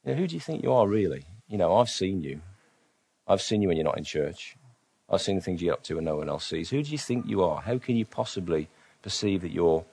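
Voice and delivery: softly voiced accuser, lifting on the questions; a quiet, needling challenge from within; mild accusation. The devil accusing a follower, mildly accusatory and soft. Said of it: "follows that on with the accusation".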